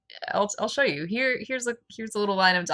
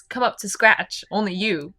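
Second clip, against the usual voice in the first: a touch slower, mock storybook narration; narrative voice; 3 dB louder, slower than usual. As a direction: read it like a dramatic novel narrator. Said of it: "and into narrative voice".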